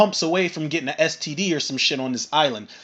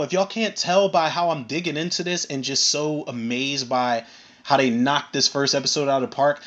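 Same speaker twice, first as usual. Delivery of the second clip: ordinary delivery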